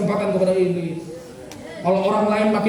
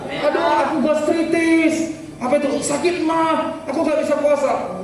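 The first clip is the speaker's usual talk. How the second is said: higher, slow whining excuse, lightly voiced; whiny church member; 6 semitones higher, slower than usual. Pastor mimics a congregant dodging the fast, whiny. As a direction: whine like a member who won't fast.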